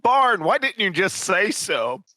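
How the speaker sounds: sudden realization. Acted. Traveller finally understands the local, high exclaiming voice.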